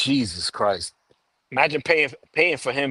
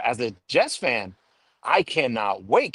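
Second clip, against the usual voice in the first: mock excitement. Jets fan telling the co-host about the coming season, mock excited. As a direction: stretch out the pretend anticipation. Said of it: "hear the excitement in my voice".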